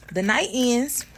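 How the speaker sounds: ordinary talk, nothing marked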